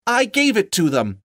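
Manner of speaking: very high frightened squeak. A narrator's reading. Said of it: "squeaked Bilbo".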